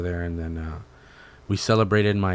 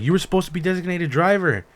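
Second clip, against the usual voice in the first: mock scolding; 9 semitones higher than usual. Retold scolding of dad.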